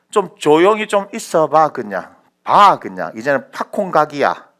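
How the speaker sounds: loud, emphatic command to settle; forceful mock-impatient order; exasperated telling-off. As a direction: tell them off with stretched, punched words. Acts God telling people to settle down.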